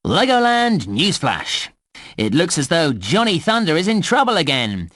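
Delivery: excited park newsreader, lively and varied; news flash. Acted. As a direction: announce it like a playful news bulletin. Reads a game news flash.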